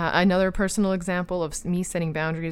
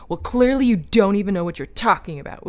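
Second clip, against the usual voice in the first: mock condescending; 3 semitones higher, 6 dB louder than usual. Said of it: "speak down and say".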